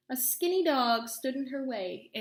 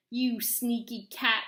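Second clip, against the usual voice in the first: angry yell; 4 dB louder, slower than usual. Acted. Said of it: "yelled Bony Legs".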